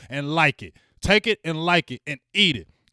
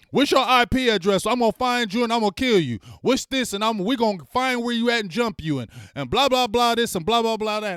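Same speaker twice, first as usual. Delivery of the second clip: louder, higher mock threat; imitating raging fans, higher and louder; mock angry fans; 7 semitones higher, 4 dB louder than usual. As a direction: ham up a furious online troll. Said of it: "jumping on there saying".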